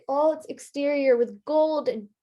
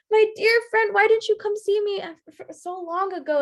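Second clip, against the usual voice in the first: excited greeting; 8 semitones higher than usual. Acted. King runs to hug friend.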